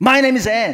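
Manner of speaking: high-pitched, loud, angry and curt delivery. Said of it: "화가 났어".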